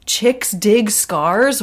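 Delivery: slow, puzzled question; incredulous. Real, not acted. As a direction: drag out "Chicks dig scars" in disbelief.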